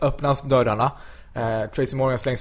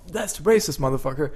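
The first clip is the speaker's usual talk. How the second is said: Tracy Morgan; 3 semitones higher than usual. Retold or imitated. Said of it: "blir skitsur".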